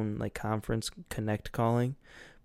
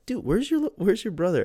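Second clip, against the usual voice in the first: higher, puzzled mock guy voice; mock confused friend; 9 semitones higher, 5 dB louder than usual. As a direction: play the baffled friend.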